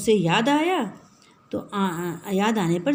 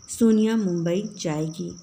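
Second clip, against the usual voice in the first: surprised. Shown as a demonstration. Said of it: "आश्चर्य भाव से".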